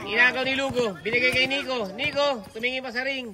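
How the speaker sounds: live courtside commentary, names called as play moves; basketball play-by-play. Real, not acted. Announcer follows Nico to the ring, live play-by-play. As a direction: call the action, stretching out the score.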